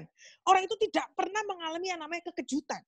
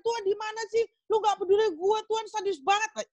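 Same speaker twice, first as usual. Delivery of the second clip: higher-pitched acted protest, not truly shouted; mock crying out; 5 semitones higher than usual. Believer accuses God of not caring, mock outcry. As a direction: complain to God in a raised, aggrieved pitch. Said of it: "Dan teriak-teriak".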